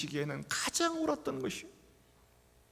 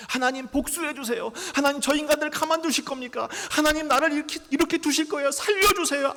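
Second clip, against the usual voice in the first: much higher, much louder desperate plea; crying out to God; 9 semitones higher, 7 dB louder than usual. Retold or imitated. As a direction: cry out raw and desperate to God. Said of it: "아우성을 칩니다".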